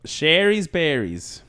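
slow, high announcer voice; ad read voice. Retold or imitated. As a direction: stretch it out like a radio ad. Mimicking podcast ad read.

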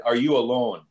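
lightly imitated Italian accent. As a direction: confidential question with a put-on Italian lilt. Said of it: "a man with a heavy Italian accent".

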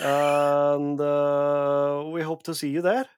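mock Norwegian accent with a Scottish lilt; hammed-up Norwegian accent, slightly Scottish. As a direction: put on a playful Norwegian accent. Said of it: "my Norwegian accent".

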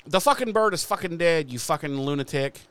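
loud, high retold outburst, easing off at the end; snapping. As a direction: snap in exasperation, imitating an angry vampire. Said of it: "Spike kinda snaps, and he's like".

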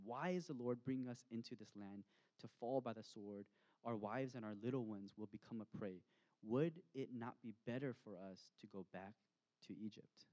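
a mild complaining edge on the quote; grumbling read aloud. Shown as a demonstration. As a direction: read it as a slightly bitter grumble. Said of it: "And so grumbling sounds like this".

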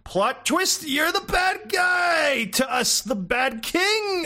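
high, booming, slow royal proclamation; king voice. Retold or imitated. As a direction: announce it like a pompous old king. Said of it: "and he said".

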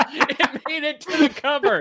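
high, loud and incredulous; cracking up in amazement; laughing disbelief. Real, not acted. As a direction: exclaim it through real laughter. Laughing outrage over film's cover.

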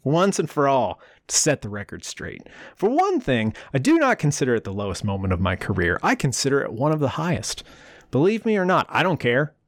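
haughty, defensive imitation of Pippen; mock snooty quote; snotty. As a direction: read it like a sulky star setting the record straight. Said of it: "I'm gonna say it all snotty too".

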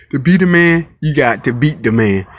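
loud, punchy catchphrase delivery; wrestling promo shout. Retold or imitated. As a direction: bellow the famous line. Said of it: "But like he say".

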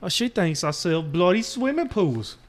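a hammed-up British tough-guy accent, lightly done; shitty put-on British accent. Man telling his partner old advice in a bad British accent. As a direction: fake a rough British accent for the bit. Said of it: "The last shitty accent I can pull out".

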